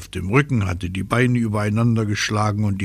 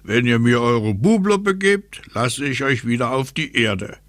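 slightly raised wind-character voice; higher-pitched, teasing bargainer; North Wind bargaining; 4 semitones higher than usual. Acted. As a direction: set out the deal as the wind.

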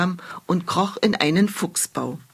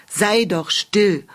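grumbling owl; 3 dB louder, slower than usual. Acted. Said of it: "murrte eine Eule".

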